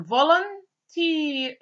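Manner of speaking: volunteer drawn out slowly, each syllable clear; slow teacher's model of volunteer; slow model word. Shown as a demonstration. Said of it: "The second one".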